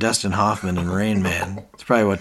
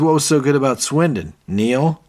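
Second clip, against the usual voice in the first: high, loud mock indignation; imitating a wounded, jealous boss; insecure challenge; 6 semitones higher, 5 dB louder than usual. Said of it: "that's his insecurity".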